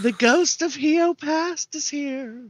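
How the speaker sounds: slow, high haunting ghost voice; drawn-out playful ghost; spooky ghost voice. Pretend. Playing a ghost in headphones.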